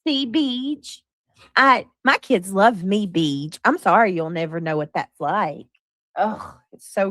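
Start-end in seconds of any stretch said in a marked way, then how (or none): 0.0-5.7 mock smug mom. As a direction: rub it in to Beej. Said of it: "Why do you sound like".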